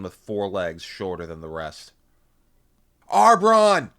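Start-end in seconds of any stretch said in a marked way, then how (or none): 3.1-3.9 high, full-force shout of a name; scream. A narrator's reading. Narrator ramming through Taxans to comrade, urgent scream. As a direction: scream it over the roar of battle. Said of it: "I screamed as I slammed".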